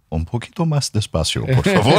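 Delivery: high, strained plea in Spanish. Retold or imitated. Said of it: "And I'm like".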